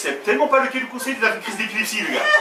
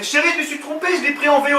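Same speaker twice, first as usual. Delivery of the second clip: lightly voiced wife, pitched higher; a hint of the wife, higher voice; l'épouse imitée; 5 semitones higher than usual. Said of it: "elle fait". (épouse imitée, voix un peu aiguë)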